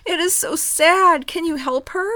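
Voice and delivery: gentle storybook narration; reading to children. Acted. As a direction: read it like bedtime story. Reads children's story aloud.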